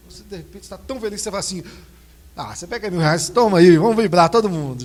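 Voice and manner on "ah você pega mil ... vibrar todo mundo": louder, bursting with joy; jubilant shout. Pretend. Overjoyed parent who found his son shouts to everyone. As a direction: throw the money up and cheer. Joyful parent throws money.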